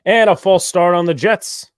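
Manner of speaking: loud, high announcer call; play-by-play penalty call. Real, not acted. Commentator calls false start on the Jets, loud announcer call.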